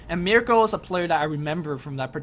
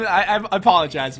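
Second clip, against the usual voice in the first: laughing; 6 dB louder than usual. Real, not acted. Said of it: "I cannot say that name without laughing".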